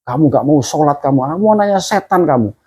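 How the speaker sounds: mild mock scolding, pitch rising at the end; retold angry mother. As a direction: act out an angry mother's scolding, without shouting. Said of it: "dia marah begini". (menirukan ibu yang marah)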